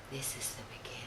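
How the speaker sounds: soft breathy whisper in the ear. Retold or imitated. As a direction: whisper it close, secretive. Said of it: "he whispered in my ear".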